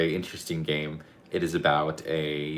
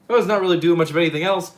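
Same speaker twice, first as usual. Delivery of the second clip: excited; 11 semitones higher, 9 dB louder, faster than usual. Real, not acted. Repeating line for new arrivals.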